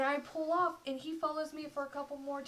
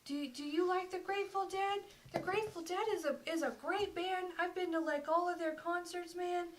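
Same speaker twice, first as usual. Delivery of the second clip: put-on drunk guy; 6 semitones higher than usual. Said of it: "he was just spouting some weird shit".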